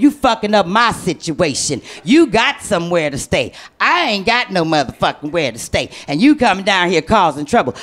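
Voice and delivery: a hint of a stern mother; mama from the window.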